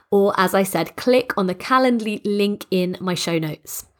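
hoarse and stuffed up with a cold; croaky congested voice. Real, not acted. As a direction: talk through a croaky, congested throat. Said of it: "you have coped with my croaky, congested voice".

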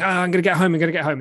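imitating drunk bravado; mock drunk urgency; excited drunk. Drunk self quoted running.

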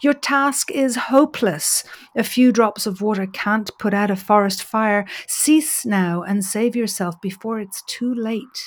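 lightly voiced majestic eagle god; a hint of a solemn, majestic god; understated solemn eagle. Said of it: "in a solemn and majestic voice".

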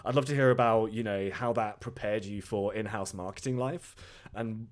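hoarse, sore-throat rasp; croaky voice. Real, not acted. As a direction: speak through a recovering sore throat. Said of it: "please excuse my croaky voice".

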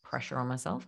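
a hushed, lifted inner question; self-questioning inner voice. Pretend. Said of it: "I want you to tune in and be like".

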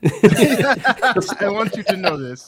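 put-on high, loud, slow creepy Carpathian accent through a laugh; Janosz accent impression. Friends quoting Janosz, slow loud creepy Carpathian accent.

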